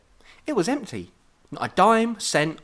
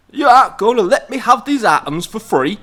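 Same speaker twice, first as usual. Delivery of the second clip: hypnotic command; 9 semitones higher, 12 dB louder than usual. Acted.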